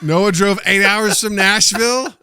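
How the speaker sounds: loud, high and slow; emphatic. Real, not acted. Insisting to the listeners, loud slow emphasis. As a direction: lean on every word for emphasis.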